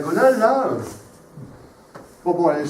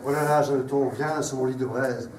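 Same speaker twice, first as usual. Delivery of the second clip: tragic declamation; 4 semitones lower than usual. Acted. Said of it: "sur un ton de tragédie tel un empereur romain".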